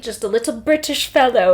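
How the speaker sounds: jokey British fellow voice; mock British accent. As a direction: play up a little British accent. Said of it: "with a posh British accent".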